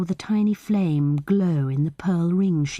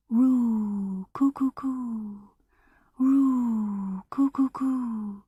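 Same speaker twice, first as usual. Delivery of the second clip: dove cooing; 5 semitones higher, much slower than usual. A narrator's reading. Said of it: "say goodbye to my doves".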